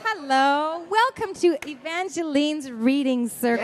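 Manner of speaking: put-on bright children's host greeting; singsong puppet show host. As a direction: welcome the little ones like a kids' show host. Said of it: "get you to read one of your favorite verses".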